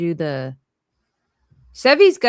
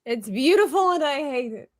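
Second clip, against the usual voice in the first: lightly voiced, higher cartoon complaint; mock cartoon quote; 6 semitones higher than usual. Repeating the Squidward joke, lightly hammed-up higher voice. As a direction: raise the pitch in mild imitation.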